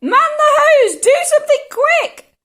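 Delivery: high, frantic shouted orders; yelling. A narrator's reading. Old woman demanding buckets and hose, frantic yelling. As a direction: bellow each order high and urgent. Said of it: "the old woman yelled".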